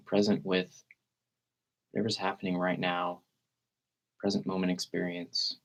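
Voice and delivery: calm meditation guide with long, unhurried pauses; guided meditation. Real, not acted. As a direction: gently lead listeners into relaxed breathing, leaving space between phrases.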